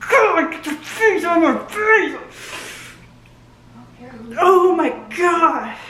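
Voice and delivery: high, laughing oh my God; laughing, overwhelmed fan squeal. Real, not acted. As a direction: gush at the screen through laughter. Overwhelmed reaction while watching.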